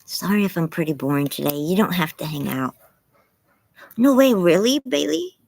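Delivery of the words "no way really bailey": high, loud disbelieving no way; surprised. Real, not acted. Reading a chat tip, surprised and loud. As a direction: caught off guard by a tip.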